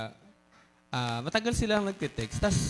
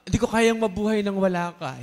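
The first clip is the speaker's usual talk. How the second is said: mock lovesick line; 5 dB louder than usual. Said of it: "Alam niyo yung ano".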